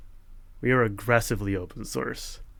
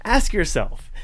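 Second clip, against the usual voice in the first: righteous anger; 9 semitones higher, 4 dB louder, slower than usual. Real, not acted. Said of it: "That was some good righteous anger".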